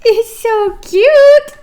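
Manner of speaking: put-on high, slow cooing as if over a baby; cooing cute voice. Teacher acting out the cute picture for her students, high slow coo. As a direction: gush sweetly like something adorable. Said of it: "It's trying to show you cute".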